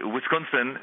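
Wisconsin with a put-on Arab accent; comic attempt at an Arab accent. Shown as a demonstration. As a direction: say Wisconsin as an Arab speaker might, with a W start. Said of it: "an Arab might say".

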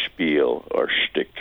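spiel and shtick with a slow SH start; sh sound. Shown as a demonstration. Caller showing the German SH sound, slowly. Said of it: "pronounced with a S H sound".

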